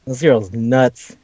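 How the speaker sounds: slow, stunned repeat; slow disbelief. Real, not acted. Friend marvels at the anime girl, slow stunned repeat. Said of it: "repeated slower".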